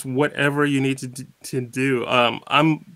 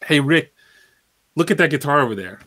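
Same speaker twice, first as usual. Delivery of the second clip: casual call; 3 dB louder, faster than usual. Shown as a demonstration. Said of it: "I just said the same thing three different ways".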